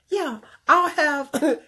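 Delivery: slow and high, sweetly clueless; naive coworker. Retold or imitated. Coworker ordering wine, unaware of the snub, naive and slow. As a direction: play her innocent, drawn-out order. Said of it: "she was so naive to things".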